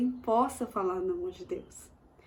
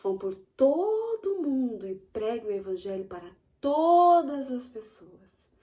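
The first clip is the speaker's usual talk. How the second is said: Jesus commanding; 2 semitones higher, 5 dB louder than usual. Retold or imitated. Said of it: "ele falou assim".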